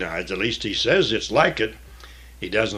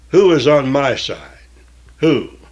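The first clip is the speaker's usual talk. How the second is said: calling out; 5 semitones higher, 8 dB louder than usual. Acted. Jehu calling up to window.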